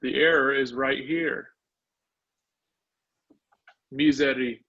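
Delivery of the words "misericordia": Misericordia with the K set apart and firm; hard K in Misericordia. Shown as a demonstration. Teacher correcting an error for the class, Misericordia with a hard K. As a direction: say Misericordia, isolating a hard K before "cordia". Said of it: "The K sound is always a K".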